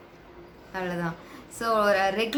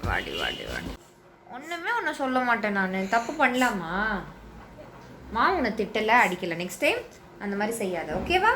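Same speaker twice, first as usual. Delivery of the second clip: soft soothing. Real, not acted. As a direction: hush her with reassurance. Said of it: "பொறுமையா சொல்லியிருக்கேன்".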